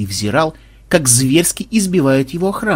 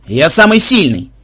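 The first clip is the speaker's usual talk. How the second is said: boastful shout; 3 semitones higher, 5 dB louder than usual. Acted. Игроки спорят громко.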